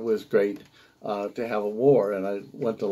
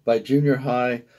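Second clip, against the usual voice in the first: measured poem recital, phrase by phrase; poetry reading. Acted. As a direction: read it as a poem, letting each image land before the next. Poet reads a second poem.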